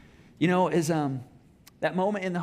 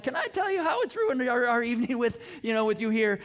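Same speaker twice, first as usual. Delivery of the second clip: retold exasperation; 6 semitones higher than usual. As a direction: fire it back at the manager, fed up. Retold angry reply to manager.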